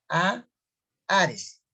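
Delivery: "A, Ares" split, with no h sound; silent H. Shown as a demonstration. Teacher correcting the reading, "A, Ares" with silent h. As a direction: open "A" on a pure vowel, pause, then "Ares". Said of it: "sería como una H silenciosa".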